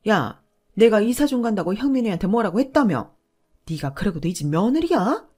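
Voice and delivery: 크게 호통치는 시어머니; 모두 들으라는 듯 크게 꾸짖기; 쩌렁쩌렁한 목소리. Acted. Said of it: "쩌렁쩌렁한 목소리로". (사람들 앞에서 며느리를 크게 꾸짖는 시어머니)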